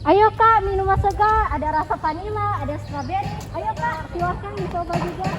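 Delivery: loud, high hawker's call; street vendor calling out. Acted. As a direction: call out to passing customers.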